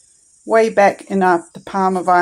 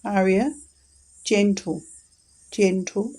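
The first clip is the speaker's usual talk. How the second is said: gentle tone. Shown as a demonstration. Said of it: "we're gonna say it in a gentle tone".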